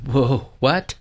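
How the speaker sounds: startled, doubtful question; taken aback. Retold or imitated. Preacher recalling his own calling from God, taken aback. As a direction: balk at an unexpected calling. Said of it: "more like his first reaction".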